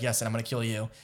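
retold threat, cold and understated; cold, matter-of-fact. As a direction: say it casually, as plain fact. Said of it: "so cold and just so matter-of-factly".

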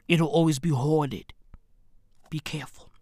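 hushed warning whisper; secretive stage whisper. Acted. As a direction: lean in and whisper it. Conspiratorial aside to audience.

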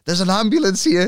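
high and loud, urgent news; alarmed gym owner. Retold or imitated. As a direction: blurt out the alarm like the panicking owner. Owner reports ambulance.

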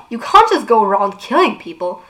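Clary protesting indignantly. Acted. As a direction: object to the killing outright. Clary objects, Jace echoes.

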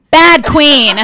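loud, high and laughing; laughing tease. Real, not acted. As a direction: scold him fondly with a big laugh. Teasing the host for forgetting notes.

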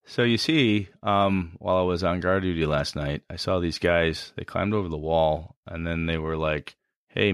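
flat monotone guard report. Shown as a demonstration. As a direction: say it all on one flat note. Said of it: "give me monotone".

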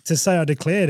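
mock protest, pointing out the paperwork; indignant protest. Traveller answers police over undeclared ammo, indignant protest.

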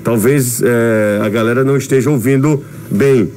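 muffled behind a mask; talking through a face mask. Real, not acted. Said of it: "é porque eu tô falando de máscara".

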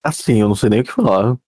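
speaking while choking. Real, not acted. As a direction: talk through a choke.

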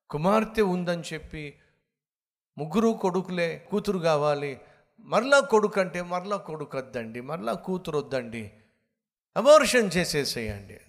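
hammed-up pushy parent; mock demand. Voicing parents demanding abortion. (తల్లిదండ్రుల గట్టి demand)

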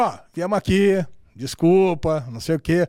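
low, mildly sarcastic mock apology; sarcastic grudging apology. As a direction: imitate a fed-up father going through the motions. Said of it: "todo com puta no sarcasmo".

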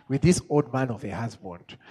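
put-on imagined wife in a Nigerian accent. Preacher imagines Sarah doubting her old husband, Nigerian accent. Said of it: "saying that in a Nigerian accent".

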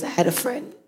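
barely audible, trailing off; mumbled under the breath; quiet. Real, not acted.

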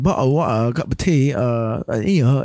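mock British accent on tea-time phrases. Shown as a demonstration. Podcaster showing friend the accent anyone may do, mock British accent. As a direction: caricature a British accent lightly. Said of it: "we can always do the British accent".

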